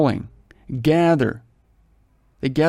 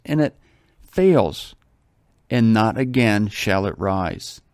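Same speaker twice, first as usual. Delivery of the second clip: slow, measured Bible reading; solemn reading aloud; scripture reading; slower than usual. Acted. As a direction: read it out like scripture.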